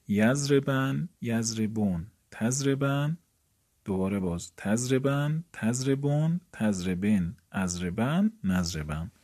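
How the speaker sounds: slow, drawn-out chant of verb forms; recited conjugation. Shown as a demonstration. Teacher chanting the paradigm to students, slow recitation. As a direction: chant each form for the class.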